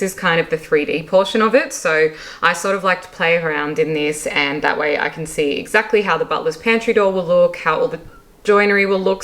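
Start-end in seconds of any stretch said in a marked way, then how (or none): 4.3-9.2 talking through hiccups; words broken by hiccups. Real, not acted. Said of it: "Sorry, I have the hiccups".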